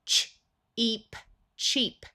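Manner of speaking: ch, then eep, then cheap blended; sounding out cheap. Shown as a demonstration. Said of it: "S will use the z sound".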